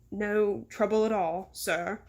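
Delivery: slow, lightly voiced dutiful reply; obedient servant. Mister Seven takes orders from his boss, mildly deferential. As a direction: answer your boss slowly and deferentially.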